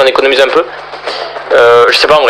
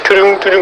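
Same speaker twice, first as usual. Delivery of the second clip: higher-pitched mimicked machine jingle; imitated GPS beeps; 5 semitones higher than usual. Gamer showing off the GPS mod's noises, imitated beeps. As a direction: voice the GPS sound effects yourself. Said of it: "en plus t'as les bruitages".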